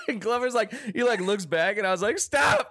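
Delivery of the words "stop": retold desperate plea. Retold embarrassed plea to friend.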